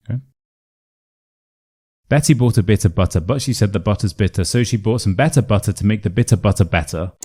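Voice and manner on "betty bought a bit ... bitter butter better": fast tongue twister with each T in "bitter butter" articulated; crisp T sounds. Shown as a demonstration. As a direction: race through "Betty bought a bit of butter", keeping British T's. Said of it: "good for practicing that T sound".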